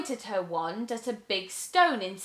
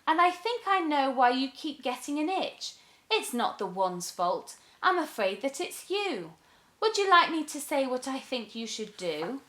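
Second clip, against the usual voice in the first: put-on lightly higher, gentle girl; kind girl; 5 semitones higher than usual. Girl explains to witch.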